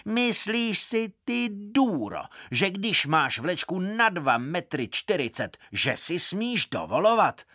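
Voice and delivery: Eva's high-pitched screech, narrated with restraint; shouted scolding. A narrator's reading. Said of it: "Eva křičela".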